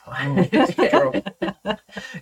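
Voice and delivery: real laugh, high; bursting laugh. Real, not acted. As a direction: crack up laughing. Laughing at joke.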